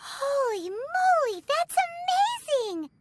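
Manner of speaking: amazed. Acted. Paimon marvels as the seal breaks, amazed. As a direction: draw out the wonder.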